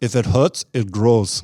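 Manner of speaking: put-on Austrian accent, very slow and loud. Quoting advice about tearing muscles to grow: Arnold Schwarzenegger accent. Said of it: "the first Arnold Schwarzenegger impression in twenty years".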